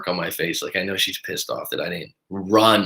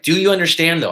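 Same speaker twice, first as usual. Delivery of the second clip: condescending over-talk; 7 semitones higher, 4 dB louder than usual. Retold or imitated. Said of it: "like over the top of me".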